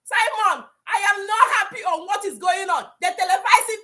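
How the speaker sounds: tearful shout of real distress; crying and shouting. Real, not acted. Distraught caller crying out to the host about the news, tearful shout. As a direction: shout through your tears. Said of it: "crying the way I'm crying".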